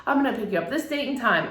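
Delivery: put-on high, singsong grandma coaxing a child; grandmother's invitation. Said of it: "one day she called me and she said".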